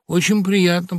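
usual speaking voice

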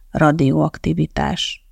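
ordinary delivery, nothing marked

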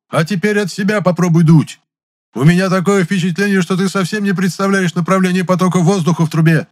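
loud, high, furious bellow; roaring like a wounded bison. A narrator's reading. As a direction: bellow over the music in rage. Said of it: "взревел раненым бизоном". (рёв раненого бизона)

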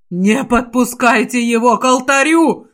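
Sabron yells in panic to guard the altar; panicked shout. Acted. Sabron shouts his order in panic. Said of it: "в панике закричал Саброн".

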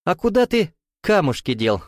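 high-pitched jovial question bursting into laughter; spring the question as a joke, then roar; infectious guffaw. A narrator's reading. New acquaintance springs a joke on Georges, laughing infectiously. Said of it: "Заразительно расхохотался новый знакомый".

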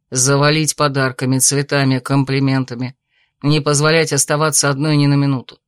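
calm suitor. Acted. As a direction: reason with her gently. Male lead character voice.

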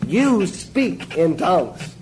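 very slow, every word stretched apart. Shown as a demonstration. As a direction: drag it out to drive it home. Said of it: "Reason I emphasize it that way".

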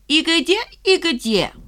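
high, mocking sing-song; clowning mockery. A narrator's reading. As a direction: pull a face while asking. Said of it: "кривляясь".

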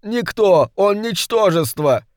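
high, strained imp pleading its master; a petty demon begging for release, voice pitched high; high complaining imp; whining little demon. A narrator's reading. Imp scorns the man.

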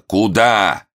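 high, loud threatening snarl; growl. Acted. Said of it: "рыкнул Момус".

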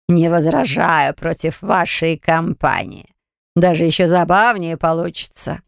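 slow, amused dark spirit; lightly voiced sinister being; dark entity voice.

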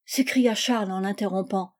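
ordinary delivery, nothing marked

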